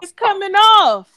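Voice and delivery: high amazed British lady; amazed British accent. Retold or imitated. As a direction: gasp it out like a shocked English lady. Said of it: "she was amazed".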